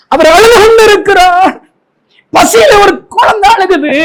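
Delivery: high, pleading pulpit wail; anguished lament. Real, not acted. Preacher comparing weeping Jesus to a hungry child, anguished. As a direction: cry it out high to move the congregation.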